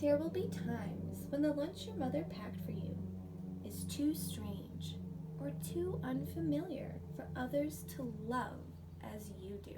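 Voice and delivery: gentle read-aloud storytelling voice; picture book reading. Acted. Teacher reading a picture book to her pre-K class, storytelling voice. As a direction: read the story warmly to little kids.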